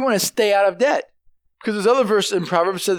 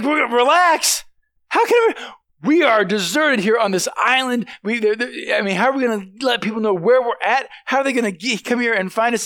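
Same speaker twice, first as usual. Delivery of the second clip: freaking out; 3 semitones higher than usual. Retold or imitated. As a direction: squeal it like he can't believe his ears. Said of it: "this one guy is just freaking out".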